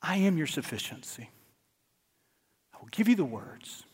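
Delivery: soft, hushed voice of God; quiet reassurance, almost whispered; preacher voicing God, hushed and calm; God speaking softly. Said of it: "God says".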